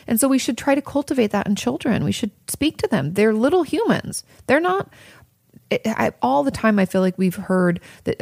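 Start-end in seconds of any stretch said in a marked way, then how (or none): none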